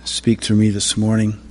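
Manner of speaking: quiet, conversational prayer; opening prayer. Real, not acted. Preacher asking the Father to speak through him, quiet prayer. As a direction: pray softly and simply, trailing off at the end.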